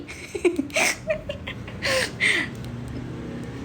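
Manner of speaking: breathy high laugh; airy laugh. Real, not acted. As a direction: laugh it off lightly. Laughing at own joke.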